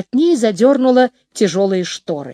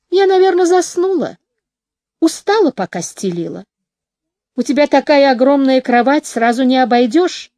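sleepy; 2 semitones higher than usual. Acted. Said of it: "сонно протянула Мэкси".

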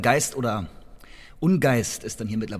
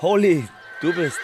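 much higher and louder, caught off guard; surprised recognition; 6 semitones higher, 5 dB louder than usual. Acted. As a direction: cry out the name in surprise. Recognizes Polly under the hat.

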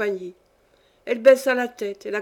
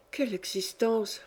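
softer, muttered to herself; said under her breath; 7 dB quieter than usual. A narrator's reading. Companion mutters to herself about her life, under her breath. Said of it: "se dit tout bas".

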